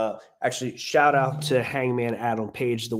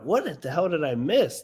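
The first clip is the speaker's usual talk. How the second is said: retold bewilderment, pitch lifted; mildly baffled, as if replaying your own confusion; confused; 5 semitones higher than usual. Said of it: "that obviously was confusing to me".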